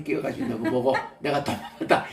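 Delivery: laughing. Retold or imitated. Quoting sister, laughing.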